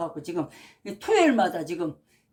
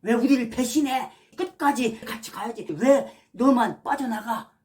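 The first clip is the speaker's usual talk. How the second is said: mock angry yell; 3 semitones higher than usual. Fake pastors yelling at a defector, angry mock shout. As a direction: snarl it at the traitor, building to a yell. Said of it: "하면서 지금 그러는 거잖아요".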